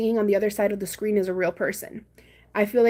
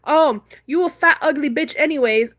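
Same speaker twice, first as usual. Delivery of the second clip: mean, nasty; 5 semitones higher, 4 dB louder than usual. Retold or imitated. Embarrassed guy trying to embarrass her back, nasty. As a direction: imitate a nasty put-down. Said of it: "be mean to me and be nasty to me".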